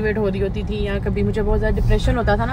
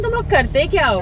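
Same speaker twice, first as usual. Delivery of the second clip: lightly imitated smug challenge, a bit higher; mock smug husbands; 4 semitones higher than usual. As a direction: tease the men's boastful question. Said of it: "बड़े शोखे होके कहते हैं ना".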